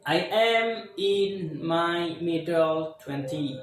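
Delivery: "I am in my early twenty" said slowly, word by word; slow example sentence. Shown as a demonstration. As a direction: model it slowly for the class. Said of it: "bisa menggunakan kayak gini". (ucapkan pelan dan jelas)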